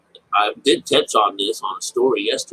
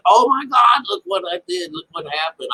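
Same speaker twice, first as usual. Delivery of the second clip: excited daughter telling father; 11 semitones higher than usual. Retold or imitated. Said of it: "run off and tell their father".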